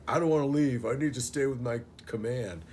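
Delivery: hammed-up soldier refusing to leave; mock stubborn soldier. Retelling Ryan refusing to go home, mock whiny insistence. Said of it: "he's just like".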